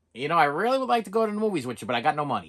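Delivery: a touch of a wheedling broke pal; lightly mimicked mooching friend. Broke friend angles for movie money, lightly mimicked wheedle.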